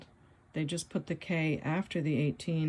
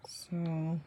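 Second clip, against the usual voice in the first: whisper; 3 dB quieter than usual. Real, not acted. Whispered lead-in before reveal.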